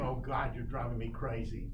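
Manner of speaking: low, weary owl voice; exasperated owl. Acted. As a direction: drop the pitch for a fed-up owl. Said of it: "the owl will go".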